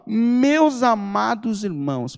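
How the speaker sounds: slow, tender "Meus amados irmãos"; loving apostle greeting his brothers. Retold or imitated. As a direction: greet them gently, like family. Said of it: "Percebe que isso muda tudo?".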